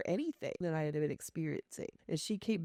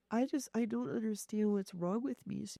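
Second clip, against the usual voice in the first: higher, mildly tearful complaint; retold sobbing; 4 semitones higher than usual. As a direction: lightly imitate a friend's miserable sobbing.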